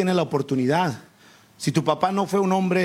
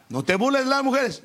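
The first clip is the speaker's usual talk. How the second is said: mother's warning; 6 semitones higher than usual. Retold or imitated.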